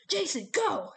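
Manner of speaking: high, loud urgent order; Hedge yelling. A narrator's reading. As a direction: yell to send him running. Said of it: "Hedge yelled".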